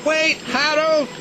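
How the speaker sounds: storybook shout of a little engine. A narrator's reading. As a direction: call out to stop him leaving. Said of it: "shouted Percy".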